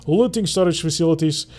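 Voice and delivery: put-on Russian accent. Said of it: "I started to try and do a Russian accent there".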